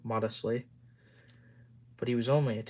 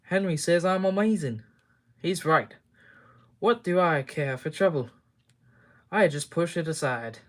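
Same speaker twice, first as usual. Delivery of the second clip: boastful; 4 semitones higher, 4 dB louder than usual. Acted. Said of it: "Oliver just laughed".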